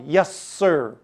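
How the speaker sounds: put-on polite, proper boy's answer; a crisp, respectful yes sir. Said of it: "Very proper".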